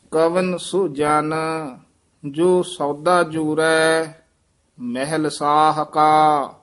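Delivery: steady devotional recitation; hymn recitation. Acted. Teacher reciting the full shabad for students. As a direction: recite the shabad with measured pauses.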